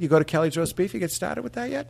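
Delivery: a Boston guy riff about Kelly's Roast Beef; Boston accent. Acted. Coach riffing in a Boston accent. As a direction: ramble like a Southie local. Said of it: "practice our Boston accent".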